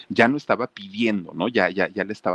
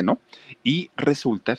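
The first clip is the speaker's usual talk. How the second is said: usual speaking voice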